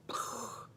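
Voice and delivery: imitated little explosion of breath; soft breathy burst; mind-blown puff. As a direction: puff out air to mime a mind blowing. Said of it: "mind-blowing".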